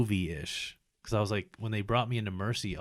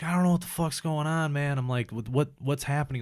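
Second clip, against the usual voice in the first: higher-pitched, bewildered retelling; retold panic; 5 semitones higher than usual. Injured patient to mom in hospital, mildly panicked retelling. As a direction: replay confused alarm with the voice pitched up.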